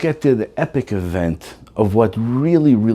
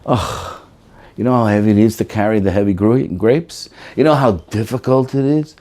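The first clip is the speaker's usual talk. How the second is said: complaining groan. Retold or imitated. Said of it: "body language that says".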